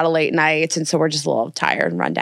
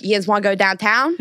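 put-on Pittsburgh accent; 2 semitones higher than usual. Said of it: "Pittsburgh is like".

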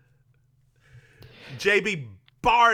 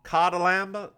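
Southern accent; 3 semitones higher than usual. Shown as a demonstration. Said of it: "Say it with a Southern accent".

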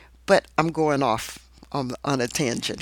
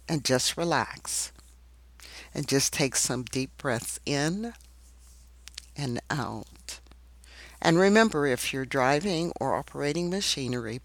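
guided meditation. Acted. Leads a meditation.

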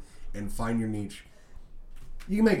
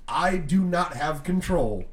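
slow spelled-out quote; slower than usual. Retold or imitated. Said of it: "you're saying".

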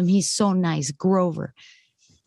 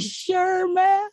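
breezy reply; 11 semitones higher than usual. Retold or imitated. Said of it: "So I was like".

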